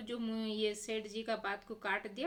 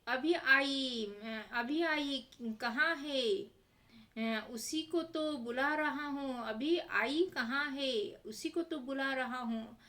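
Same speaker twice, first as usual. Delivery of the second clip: mock exasperated landlord; 2 semitones higher, slower than usual. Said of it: "सेठ जी बोल रहे हैं".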